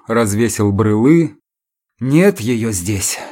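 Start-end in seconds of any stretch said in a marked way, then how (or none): 2.0-3.2 sighing. Acted. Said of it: "сообщил он со вздохом".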